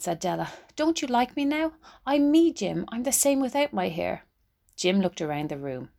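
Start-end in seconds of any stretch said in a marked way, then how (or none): 0.8-4.3 high, anxious pleading; a higher, earnest plea to her husband. Acted. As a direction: beg him to still love you. Della pleads with Jim.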